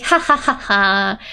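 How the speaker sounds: light, spelt-out ha-ha; mock innocent laugh. Unconcerned friend laughing about the car, lightly. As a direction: laugh it off without a care. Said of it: "She's just laughing here".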